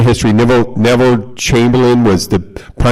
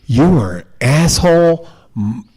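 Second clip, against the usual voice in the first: mock tirade, higher and drawn out; slow, hammed-up insults in a higher pitch; retold yelling; 4 semitones higher, slower than usual. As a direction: imitate an angry man hurling insults, without shouting. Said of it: "He's yelling at me".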